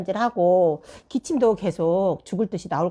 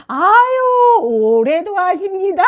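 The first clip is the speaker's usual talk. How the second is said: laughing, slowed exclamation; 10 semitones higher, 6 dB louder, much slower than usual. Retold or imitated. Mother laughing at the teacher's reply. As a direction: laugh through the words. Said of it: "막 웃으시면서".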